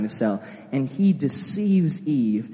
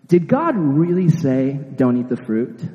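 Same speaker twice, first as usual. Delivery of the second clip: slow, sly tempter voice; sneaky serpent; 4 dB louder than usual. Acted. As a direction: coax her slowly like a sneaky snake. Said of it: "he's all sneaky".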